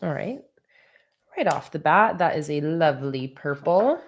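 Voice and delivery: talking while crunching food; chewing snacks between words; crunching chips. Real, not acted. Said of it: "Apologies for my crunching".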